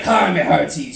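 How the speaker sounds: Bristolian accent pirate greeting. Shown as a demonstration. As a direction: greet like a West Country pirate. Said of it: "the pirate voice is quite like that".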